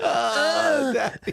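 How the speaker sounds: very high, cried-out moan; mock sexual moan. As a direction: wail it out as a suggestive gag. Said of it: "You moan, like, sexually".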